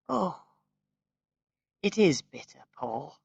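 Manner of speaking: mild distaste. A narrator's reading. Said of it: "making an expression of distaste".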